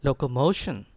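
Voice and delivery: locomotion with a strong MO; firm locomotion, MO stressed, falling end; model pronunciation. Shown as a demonstration. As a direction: push MO in locomotion for the class to repeat. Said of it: "Say it with me".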